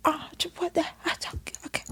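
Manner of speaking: breathy stunned half-whisper; a stunned, barely voiced okay. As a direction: trail off in disbelief. Stunned retold reaction.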